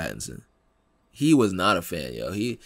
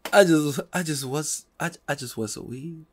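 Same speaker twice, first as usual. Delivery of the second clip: mock whimper; 4 semitones higher than usual. Begging continues.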